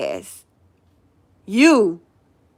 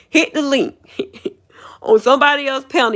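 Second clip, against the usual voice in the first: giggling whisper, higher, breaking into laughter; whispered laughing; 4 semitones higher than usual. Real, not acted. Telling her viewers about the rival, a giggling whisper. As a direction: she can barely get the words out for laughing.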